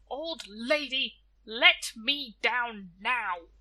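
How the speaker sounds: angry demand. Acted. Death stuck in the tree demanding release, slow and angry. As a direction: stretch every word in fury. Called her terrible things.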